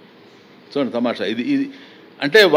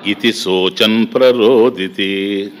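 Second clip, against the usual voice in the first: verse recitation; 3 semitones lower, much slower than usual. Shown as a demonstration. Teacher recites Sanskrit verse.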